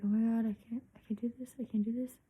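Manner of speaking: imitating a panicked old man in a whisper; breathless whisper, mock panic; hushed mock panic. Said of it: "He's like".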